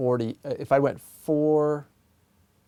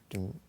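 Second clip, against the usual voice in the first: pulse demo; 2 semitones lower, 9 dB quieter than usual. Shown as a demonstration. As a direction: hum one steady beat. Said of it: "If we think of pulse as rhythm".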